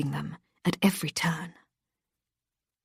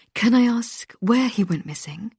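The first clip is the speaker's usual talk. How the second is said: upbeat host, a touch higher; bright radio presenter; 5 semitones higher than usual. Acted. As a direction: coax the caller along like a cheerful host.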